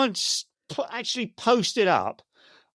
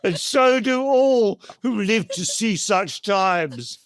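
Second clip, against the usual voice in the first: mock-solemn Gandalf; 2 semitones higher than usual. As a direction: read it like a grave old wizard, a bit hammed. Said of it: "said Gandalf".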